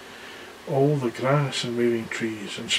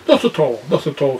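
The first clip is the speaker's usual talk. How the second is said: polite giant; 3 dB louder than usual. Acted. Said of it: "said the giant politely".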